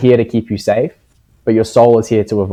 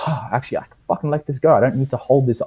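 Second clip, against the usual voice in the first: relieved inner voice; 3 semitones higher, 5 dB quieter, faster than usual. Retold or imitated. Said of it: "You start to go".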